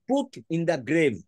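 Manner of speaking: very slow, every word spaced out for note-taking; slow, deliberate dictation pace. Shown as a demonstration. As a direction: dictate it slowly so they can write. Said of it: "মানেটা লিখে নাও".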